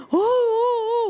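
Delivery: imitating the mourners' high wailing cries; mock wailing. Preacher voicing mourners wailing over the dead girl. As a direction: wail like the grieving household.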